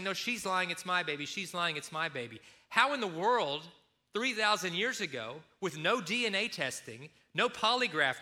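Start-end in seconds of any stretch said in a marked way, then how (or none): 0.0-2.4 raised voice that drops away at the end; quarrelling women. Retold or imitated. Two women arguing before the court, raised then fading. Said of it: "they're both saying".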